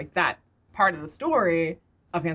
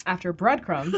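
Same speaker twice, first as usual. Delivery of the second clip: laughing slip. Real, not acted. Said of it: "Freudian slip".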